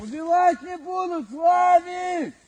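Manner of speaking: high, loud shout across distance; calling from far away. Real, not acted. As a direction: call out to comrades far away. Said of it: "Кричи".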